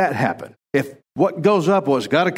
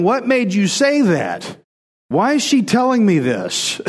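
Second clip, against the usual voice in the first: higher-pitched, puzzled questioning; bewildered man's inner voice; baffled guy; 4 semitones higher than usual. Acted. Guy reacting to a woman's "I love you", baffled. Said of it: "he's thinking".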